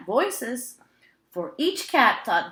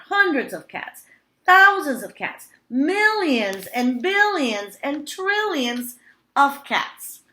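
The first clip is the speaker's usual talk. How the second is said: rising, louder exasperated listing; overwhelmed; 7 semitones higher, 6 dB louder than usual. A narrator's reading. Old woman overwhelmed by the cats, building louder. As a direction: pile up the numbers in dismay.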